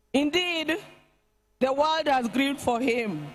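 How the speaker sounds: solemn, measured eulogy reading; faltering tender eulogy. Acted. Reads eulogy at state funeral.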